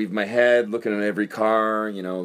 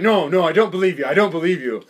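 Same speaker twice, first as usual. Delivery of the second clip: mock broken English; 4 semitones higher, 4 dB louder than usual. Imitating girlfriend refusing.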